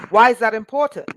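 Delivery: loud, rising preacher's cry; passionate near-yell. Real, not acted. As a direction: hit the question hard with passion. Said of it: "Sorry, I'm not yelling. I just get passionate".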